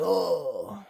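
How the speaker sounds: high, softish "oh"; acted pained "oh". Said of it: "you're like".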